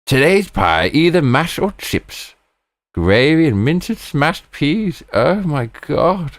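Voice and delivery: high, excited menu reading; thrilled relish. Real, not acted. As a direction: savour each item, slowing into a swoon. Savouring the pie menu.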